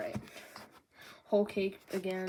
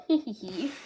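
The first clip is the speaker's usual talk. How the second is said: mock giggle; 3 semitones higher, 5 dB louder than usual. Shown as a demonstration. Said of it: "And not this".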